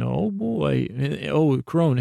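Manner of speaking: a hint of a wry goddess; lightly voiced old crone, amused; the Crone's voice, lightly done. Imagining the Crone answering him, lightly voiced and amused. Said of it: "And I can hear you saying".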